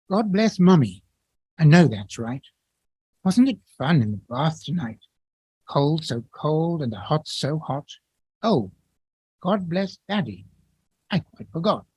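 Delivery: a hint of a little boy at bedtime; child praying. Child's prayer voiced in poem.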